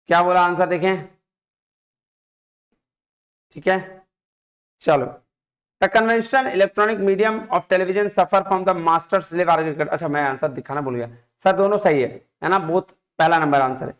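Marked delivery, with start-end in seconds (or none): 5.8-9.9 reading the question out slowly, word by word. Shown as a demonstration. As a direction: read it out slowly for the class. Teacher reads question aloud slowly. (धीरे-धीरे प्रश्न पढ़ना)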